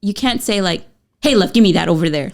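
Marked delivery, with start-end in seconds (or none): 1.2-2.3 fast brusque demand with a sweet word; mock grouchy request; curt order. Shown as a demonstration. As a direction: bark it quickly, love or not. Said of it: "you're not gonna say that like that".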